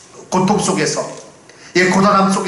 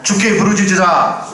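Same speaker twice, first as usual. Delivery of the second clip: louder, higher second call; 3 semitones higher, 5 dB louder than usual. Shown as a demonstration. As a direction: cry it out to the congregation. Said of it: "크게 따라서 외쳐보겠습니다".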